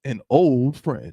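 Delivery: slow dramatic build-up. Acted. Telling a friend the gossip, slow and teasing. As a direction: stretch out "an old friend" slowly for suspense.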